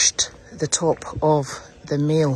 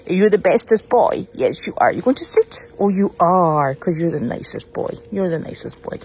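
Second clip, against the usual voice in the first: loud, doting praise for the puppy; dog praise; 4 dB louder than usual. Real, not acted.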